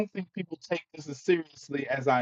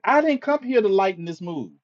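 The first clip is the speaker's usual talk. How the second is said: firm rebuttal; 5 semitones higher than usual. Real, not acted.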